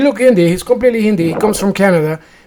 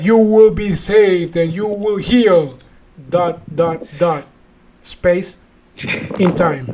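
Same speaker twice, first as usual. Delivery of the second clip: solemn faith healer; slower than usual. Retold or imitated. Acting out the healer's slow pronouncement.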